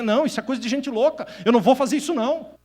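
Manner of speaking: fast, laughing mock denial; laughing dismissal. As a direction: brush it off as crazy with a laugh. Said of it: "pra dizer".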